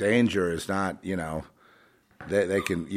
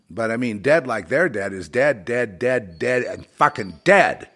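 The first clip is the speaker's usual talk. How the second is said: building anger; 4 semitones higher, 7 dB louder than usual. Real, not acted. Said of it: "I've gotten all excited now".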